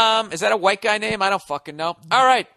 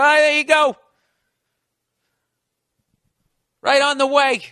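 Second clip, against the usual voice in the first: eager service voice; 7 semitones higher, 5 dB louder than usual. Acted. Government voice.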